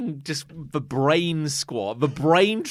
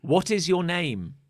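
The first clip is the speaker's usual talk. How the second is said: slow ghost-hunter question; 4 semitones higher, 3 dB louder, slower than usual. Pretend. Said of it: "you can say, like".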